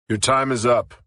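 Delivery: a hint of a stern cop. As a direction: cop ending her phone call, stern. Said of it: "he said sternly".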